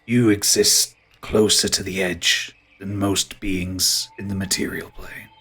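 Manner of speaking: ponderous, musing ent; ancient tree creature. Acted. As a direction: recall it slowly, like an old tree.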